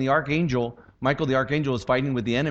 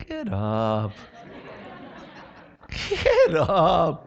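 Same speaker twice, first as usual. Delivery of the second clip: God's firm command; much slower than usual. Retold or imitated. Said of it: "what the Lord said to me".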